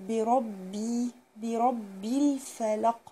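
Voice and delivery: الفلق with a clear, sounded لام, very slow; slow model recitation; clear lam. Shown as a demonstration. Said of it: "يعني أظهرها".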